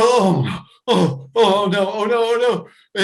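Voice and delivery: dismay building at the news; distressed moaning. Retold or imitated. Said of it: "I go".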